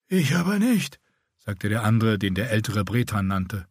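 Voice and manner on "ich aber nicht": higher, grating voice like a rasp; rasping scarred warrior. A narrator's reading. Scarred Bretan rebuffing the older man, higher rasping voice. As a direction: scrape each word out like a rasp. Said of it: "seine Stimme klang wie ein Reibeisen".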